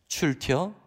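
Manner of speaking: clipped Chungcheong 출켜; a lightly voiced country man asking to dance; Chungcheong dialect. Pastor imitating Chungcheong man at dance hall. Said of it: "충청도 사람들은요".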